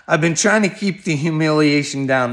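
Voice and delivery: normal talking voice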